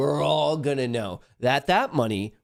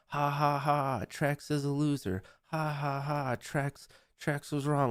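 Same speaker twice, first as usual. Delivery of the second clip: mock chat laughing; 4 semitones higher, 5 dB quieter than usual. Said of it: "the entire chat just laughing at Trex".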